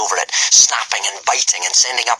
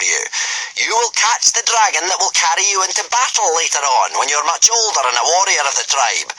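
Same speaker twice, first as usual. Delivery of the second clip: commanding Gobber; 9 semitones higher than usual. A narrator's reading. Gobber sending the boys up the cliff, commanding. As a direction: order the boys like a drill master.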